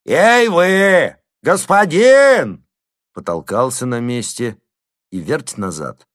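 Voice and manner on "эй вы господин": loud, high, slow call; peasant's shout. A narrator's reading. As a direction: call up to the roof. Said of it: "закричал".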